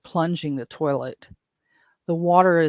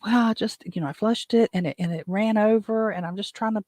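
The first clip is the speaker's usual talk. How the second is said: higher, hurried imitation of her excuse; a hint of a fretful lady defending herself; flustered woman; 6 semitones higher than usual. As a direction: act out her anxious explanation. Flustered woman explains in story.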